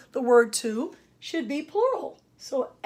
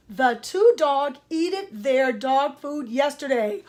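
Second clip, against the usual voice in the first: slow read-out; slower than usual. Shown as a demonstration. Reads out the faulty sentence slowly.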